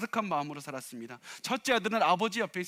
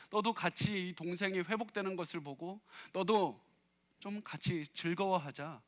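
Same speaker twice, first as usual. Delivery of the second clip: pleading father; 2 semitones higher than usual. Retold or imitated. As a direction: plead with him to come celebrate. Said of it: "이렇게 얘기를 합니다".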